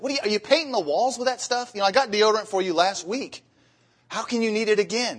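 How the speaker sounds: high, incredulous nagging wife voice; mock the wife who can't believe he's out already; exasperated wife. Wife scolding husband over deodorant, high and incredulous.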